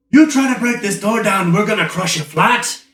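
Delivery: high-pitched threatening yell, acted; yelling guard. Door guard yelling at someone who hit the door, yelling. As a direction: yell it as an angry guard at an intruder. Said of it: "he's yelling at you".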